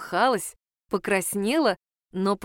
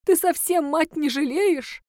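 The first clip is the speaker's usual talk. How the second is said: sob; 7 semitones higher, slower than usual. Acted. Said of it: "Женщина всхлипнула".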